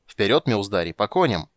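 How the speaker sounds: loud rallying charge; battle cry. Acted. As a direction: rouse the riders to charge. Borch rallies riders to charge.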